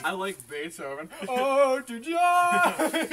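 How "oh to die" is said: character voice. Pretend. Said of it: "Speak in your favorite character's voice".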